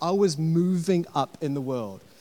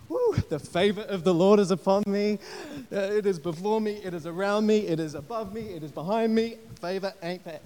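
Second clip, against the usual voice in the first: mock jubilant; 4 semitones higher than usual. Imitated gloating upgraded passenger.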